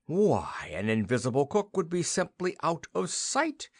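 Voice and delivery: delighted by the idea; a touch of excitement; cried out. A narrator's reading. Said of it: "cried the king".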